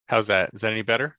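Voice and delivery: thin voice no bass; thin tinny sound, no bass. Real, not acted. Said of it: "It's still kinda tinny".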